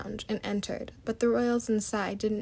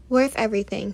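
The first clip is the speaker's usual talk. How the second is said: raised voice over the crowd; loud over the noise; 10 dB louder than usual. A narrator's reading. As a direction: call it out loudly. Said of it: "continued Maddie, chuckling".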